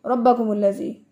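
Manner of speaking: fast रब्बकुमुल्लज़ी with no pause on the doubled b; hurried रब्बकुमुल्लज़ी without the held bb; rushed wrong reading. Shown as a demonstration. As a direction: run रब्बकुमुल्लज़ी together quickly, skipping the shadda. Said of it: "इसको ये नहीं पढ़ेंगे".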